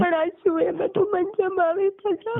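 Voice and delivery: crying protest. Real, not acted. Accused girl crying in quarrel.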